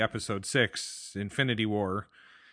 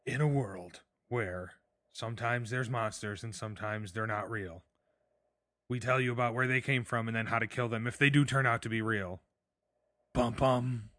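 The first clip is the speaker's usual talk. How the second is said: horror trailer voice. Shown as a demonstration. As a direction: growl it like a cheesy trailer voiceover. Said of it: "let me do a trailer".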